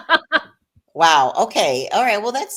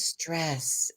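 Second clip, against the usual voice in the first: hushed imitated acupuncturist; 7 dB quieter than usual. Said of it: "he has very, you know, broken English".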